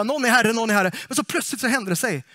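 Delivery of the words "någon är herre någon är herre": raised, repeated acclamation; mock crowd chant; repeated mock call. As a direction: call it out loud, over and over. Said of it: "Konstant fick man ropa".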